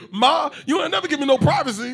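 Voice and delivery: high, loud laughing mock rant. Host acting a bathroom scene, laughing loudly. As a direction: shriek it through laughter.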